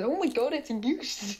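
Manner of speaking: playful shocked exclamation; acted-out amazement. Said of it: "he says".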